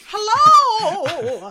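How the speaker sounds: mock grand greeting. Announcing arrival in the past, loud and hammed-up. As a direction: boom it out like arriving in another era.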